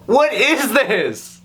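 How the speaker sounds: incredulous. Real, not acted. Disbelief at video.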